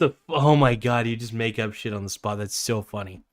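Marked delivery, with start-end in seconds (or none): none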